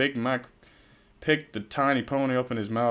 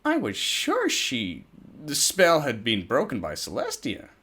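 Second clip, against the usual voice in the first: Twilight voice; 4 semitones higher than usual. Acted. Twilight voice continues.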